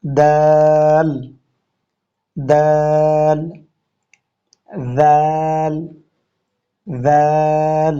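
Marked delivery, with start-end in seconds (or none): 0.0-3.4 দাল stretched very slowly, tongue slightly out; drawn-out dal. Shown as a demonstration. Teacher showing learners a slow careful dal. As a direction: drag দাল out with the tongue touching the teeth. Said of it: "সায়ের মতো একটু জিহ্বা বের হবে".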